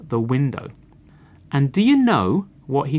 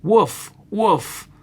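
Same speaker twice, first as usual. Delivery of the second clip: high storyteller's woof; dog barking; 7 semitones higher than usual. A narrator's reading. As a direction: bark out two woofs like a dog. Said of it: "the dog barked".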